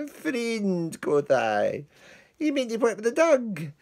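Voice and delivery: butter up the dog-whipper; wheedling plea. Acted. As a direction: Lance coaxing the man with the whip. Lance coaxing the dog-whipper.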